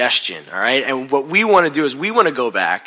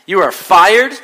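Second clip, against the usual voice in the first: higher, louder, each word hammered; furious firing; 6 semitones higher, 8 dB louder, slower than usual. Acted. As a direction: blow up at the employee. Boss repeats, escalating.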